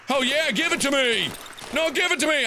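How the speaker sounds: high, excited gimme; eager demand. Real, not acted. Spots a gun in game.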